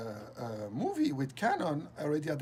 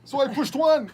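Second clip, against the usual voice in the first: higher and much louder, gleeful; excited; 7 semitones higher, 12 dB louder than usual. Real, not acted. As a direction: crow about the trick, thrilled. Excited retelling of trick.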